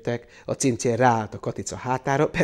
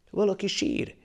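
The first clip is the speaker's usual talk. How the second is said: higher-pitched fox cry; a short, raised animal call; 8 semitones higher than usual. A narrator's reading. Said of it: "kiáltotta a róka".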